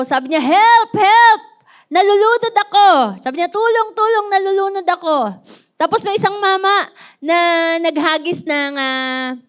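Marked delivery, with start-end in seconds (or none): 0.4-2.9 higher, louder cry of a drowning man; retold shout for help. Man in the water screaming for help, higher and louder. 3.5-5.2 higher-pitched call for rescue; retold cry for help. Drowning man crying tulong, higher-pitched.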